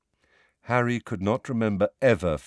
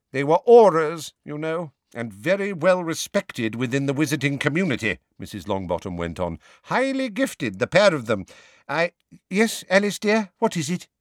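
put-on high, proud elderly witch voice; stern old grandmother; 7 semitones higher, 3 dB louder than usual. A narrator's reading. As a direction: play her as a stately, proud grandmother. Mrs Longbottom voiced in story.

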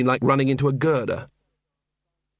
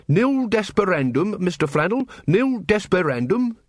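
slow, higher, cheerful reassurance; 6 semitones higher than usual. A narrator's reading. Carrot consoles robbed Mister Flannel, cheerful. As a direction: sing out cheery comfort, unhurried. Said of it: "said Carrot cheerfully".

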